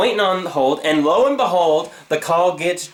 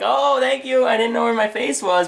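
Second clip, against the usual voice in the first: mock gratitude; 6 semitones higher than usual. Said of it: "And I'm like".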